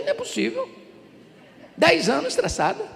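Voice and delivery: high incredulous exclamation; can't believe a ten-year-old is stressed; disbelief. Retold or imitated. Pastor answering the girl in high mock disbelief.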